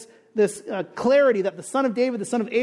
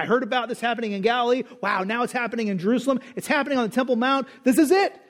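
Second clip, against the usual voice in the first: excited crowd; faster than usual. Retold or imitated. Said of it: "They're like".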